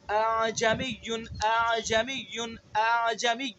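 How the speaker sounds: اعجمی repeated with a softened hamza; drill repetition. Shown as a demonstration. Teacher drilling students on اعجمی. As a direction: drill اعجمی three times, hamza eased. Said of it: "اس کی خوب مشق کرنی ہے".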